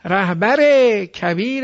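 "رهبر کبیر" said as rahbar-e kabir-e; linking kasra. Shown as a demonstration. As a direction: hold the final -e on "رهبر" and "کبیر".

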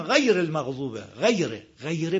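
"غیره" short, its a tinged lightly toward y; correct minor imala. Shown as a demonstration. Teacher models the right reading, "غیره" with slight y tint. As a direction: say "غیره" between "ghay" and "ghey".

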